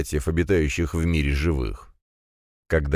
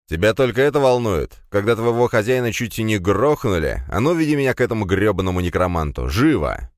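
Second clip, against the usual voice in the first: shouting; 4 semitones higher than usual. Acted. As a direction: bark orders at the servant. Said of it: "Последнюю фразу я уже выкрикнул".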